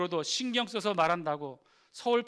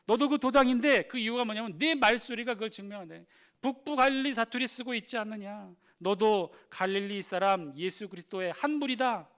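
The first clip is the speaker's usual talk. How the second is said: loud, higher-pitched accusation; accusing; 4 semitones higher, 5 dB louder than usual. Acted. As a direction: confront him as the bystanders did, loudly. Acting out Peter's accusers. (큰 소리로 추궁하듯)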